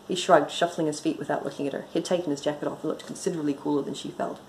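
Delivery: brisk, even audiobook reading; story narration. A narrator's reading. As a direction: read the story aloud with dry composure. Reads own story aloud.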